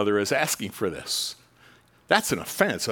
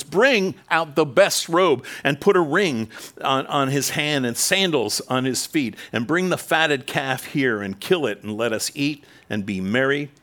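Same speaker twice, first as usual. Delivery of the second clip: eager commands, raised and slowed; joyful father's orders; 3 semitones higher, 4 dB louder than usual. Acted. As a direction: call out the feast with joy.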